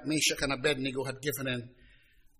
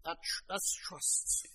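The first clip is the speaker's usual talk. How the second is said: whispered emphasis; 4 semitones higher, 12 dB quieter, slower than usual. Real, not acted. Hushed closing aside.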